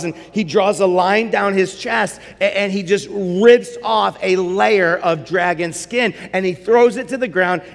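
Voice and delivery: ordinary talk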